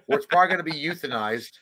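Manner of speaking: put-on sorrow trailing off; mock sad. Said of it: "See how sad I made that?".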